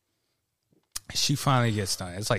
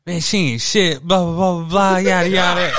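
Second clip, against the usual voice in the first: mock coworker trash talk; 6 semitones higher, 6 dB louder than usual. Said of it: "She's like".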